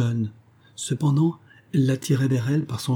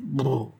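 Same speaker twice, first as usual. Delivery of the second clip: higher-pitched "brrr" shudder; frightened shiver; 4 semitones higher than usual. A narrator's reading. Evelyne shuddering at the uncle's smile, frightened "brrr". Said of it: "Les petites dents blanches d'Evelyne claquaient de frayeur".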